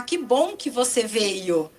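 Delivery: slow, drawn-out friendly welcome; pleased welcome. Shown as a demonstration. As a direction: greet someone as if glad they came. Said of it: "se eu falar".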